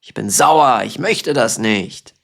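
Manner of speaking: playful demo of being cross; mock angry. Shown as a demonstration. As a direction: act out being grumpy. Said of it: "Sauer ist ein Synonym auch für wütend".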